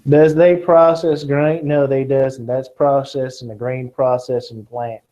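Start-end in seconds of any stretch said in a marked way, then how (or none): 0.1-2.4 slow, playful Kentucky drawl with folksy grammar; a hint of a southern drawl; joking southern accent. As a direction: ham up the country talk to tease the student. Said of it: "to hear my southern accent more".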